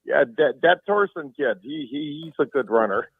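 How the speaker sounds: lightly mimicked rural Minnesota accent; a touch of small-town Minnesota announcer accent. Repeating the local radio announcer's call, mock Minnesota accent. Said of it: "Here's the guy in the local radio station".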